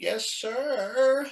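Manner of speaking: feeble, very weak, very high little voice. Recalling answering the archbishop in a preparation session, imitating own very weak voice. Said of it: "in a very weak voice".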